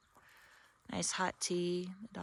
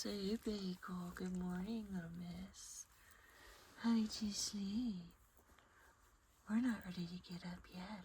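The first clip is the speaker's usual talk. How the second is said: whispering; 5 dB quieter than usual. Real, not acted. Whispering to dog in bed.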